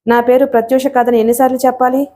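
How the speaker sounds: plain reading voice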